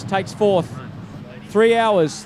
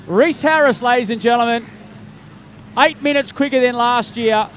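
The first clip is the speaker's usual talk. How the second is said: excited announcement; 3 semitones higher than usual. Real, not acted. Announcer calls finisher over PA.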